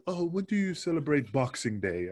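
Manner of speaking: put-on a light take-off of an Australian accent; imitated Australian accent. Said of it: "with his Australian accent".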